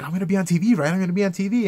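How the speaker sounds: mock eager interviewee. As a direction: mimic a giddy interviewee. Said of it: "some people are like".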